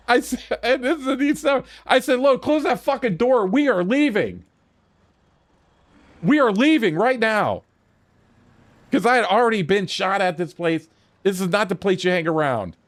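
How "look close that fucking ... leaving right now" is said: emphatic, insistent command; acted-out urgent ultimatum; retold firm order. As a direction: lay down the law, punching each phrase.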